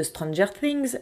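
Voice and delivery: English title in a French accent. Real, not acted. Citing a series as an example, French-accented English. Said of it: "avec mon superbe accent anglais".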